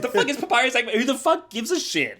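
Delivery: high, incredulous rant; exasperated outburst. Real, not acted. Co-host scoffing at a far-fetched theory, high exasperated outburst. Mock quarrel over fan theory.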